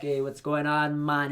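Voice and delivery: lightly imitated Jamaican greeting, drawn out; a touch of easygoing Jamaican accent. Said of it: "like, Jamaican accent".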